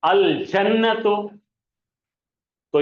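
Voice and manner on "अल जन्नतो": अल जन्नतो slowly, ल kept clear; slow Arabic reading. Shown as a demonstration. Teacher to class, slowly reading the moon-letter word. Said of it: "यहां पे जाइए".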